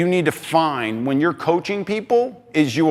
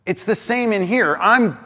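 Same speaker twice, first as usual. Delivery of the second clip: ordinary delivery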